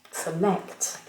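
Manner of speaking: select with the stress on LECT; select, the weight on the second syllable. Shown as a demonstration. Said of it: "accentués sur la deuxième syllabe".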